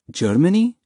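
high, rising question of disbelief; astonished mother, pitch lifted; stunned. A narrator's reading. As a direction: echo it back in shock. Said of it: "as stunned as his mother sounded".

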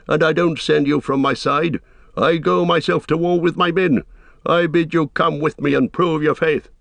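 king summoning his servant to war; lightly voiced king. A narrator's reading. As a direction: resolute royal command.

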